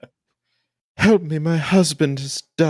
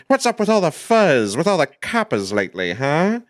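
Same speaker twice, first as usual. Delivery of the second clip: mock 1920s gangster snarl; 3 semitones higher than usual. Host posing the episode question as a gangster. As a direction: sneer about the coppers like a mobster. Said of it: "different voice".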